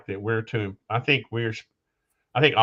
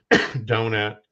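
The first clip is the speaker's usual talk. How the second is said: speaking through a cough; 3 dB louder than usual. Real, not acted. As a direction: talk between coughs, throat rough. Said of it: "I'm still coughing".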